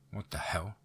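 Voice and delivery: breathless shocked whisper. A narrator's reading. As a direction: whisper it to yourself, stunned. Shocked thought at a name.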